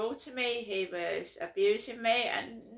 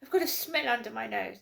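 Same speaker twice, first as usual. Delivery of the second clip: a lightly voiced disdainful royal; Camilla impression; 2 semitones higher, faster than usual. Mocking snobs, a touch of posh royal disgust. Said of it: "It's a bit like Camilla".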